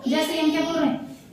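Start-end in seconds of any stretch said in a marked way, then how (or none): 1.3-1.3 ई drawn out as a long ee; long heavy vowel. Shown as a demonstration. Teacher contrasts it with the light vowel, long ई. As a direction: hold ई for a long beat. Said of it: "देर तक बोलना पड़ रहा ना".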